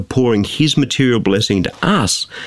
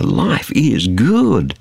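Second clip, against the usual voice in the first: mock contentment; much slower than usual. Mimicking party-goers' contented boast.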